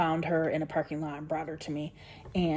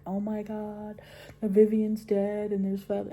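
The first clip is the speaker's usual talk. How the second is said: a mild replay of the panicked wail, a bit higher; retold distraught cry; 4 semitones higher, 4 dB louder than usual. Telling her son the chicken is dead, mildly distraught. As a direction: blurt it out as if finding the feathers again, half-choked. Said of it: "and I was like".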